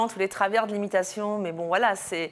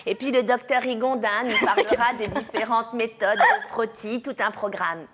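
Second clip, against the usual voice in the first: bright TV-host welcome; cheery daytime-TV presenter; Sophie Davant. Retold or imitated. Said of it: "j'ai lâché un Sophie Davant". (animatrice télé au cabinet du gynéco, ton enjoué)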